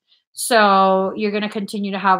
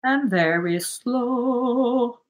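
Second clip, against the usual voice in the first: very slow breathing instruction; slow guiding voice; 2 semitones higher, much slower than usual. Shown as a demonstration. Psychic guiding client before a song, slow calm instruction. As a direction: draw each word out, calm. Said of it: "guiding breath".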